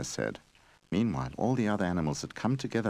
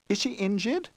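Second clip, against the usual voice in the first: horrified. Acted. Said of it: "Goldie asked in horror".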